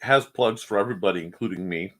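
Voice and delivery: talking while chewing gum; words around a wad of gum. Real, not acted. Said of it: "please pardon the gum".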